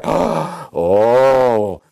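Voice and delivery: lightly voiced fretful believer, gasping whoa; mock-scandalized church member; a hint of a shocked religious person; imitating a timid churchgoer. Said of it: "somebody may be thinking".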